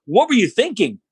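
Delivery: high, swooping mock disbelief; super sarcastic. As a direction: ridicule the idea with exaggerated amazement. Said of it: "And he's super sarcastic".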